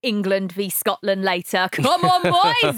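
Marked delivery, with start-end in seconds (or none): 1.7-2.8 loud, high rallying cry with a touch of a Scottish accent; excited cheer with a hint of Scottish. Real, not acted. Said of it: "half Scottish accent on purpose".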